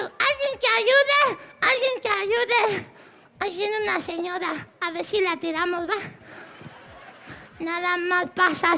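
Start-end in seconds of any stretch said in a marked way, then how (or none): 0.0-2.9 mock call for help. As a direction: call out slowly for a helper. (llamado lento pidiendo ayuda)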